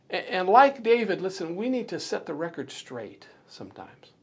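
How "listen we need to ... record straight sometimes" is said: hushed, breathy whisper to the congregation. Real, not acted. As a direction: lean in and whisper it. Preacher urging, drops to whisper.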